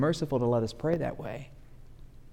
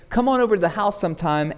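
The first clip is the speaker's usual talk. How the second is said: casual invite; 4 semitones higher, faster than usual. Retold or imitated. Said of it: "an invitation saying".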